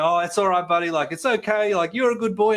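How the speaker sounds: put-on high, coaxing good-boy voice; soothing a dog. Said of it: "so I started going".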